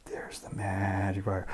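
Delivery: whispered aside; soft whispered line. Acted. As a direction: hush it under the breath. Magic fire scene.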